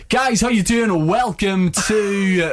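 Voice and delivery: cheesy DJ greeting, drawn out; radio jock voice. Pretend. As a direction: hype it up like a radio host. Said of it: "Give us a wee flavour".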